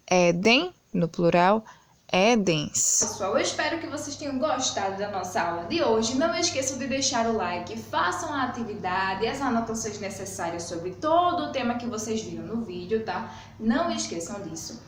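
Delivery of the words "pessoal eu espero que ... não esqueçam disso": fast, softer goodbye to the viewers, a lesson wrapping up; teacher saying goodbye to her students, soft and quick; quick soft sign-off. Acted. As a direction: rattle off the outro quietly and fast. Video outro sign-off.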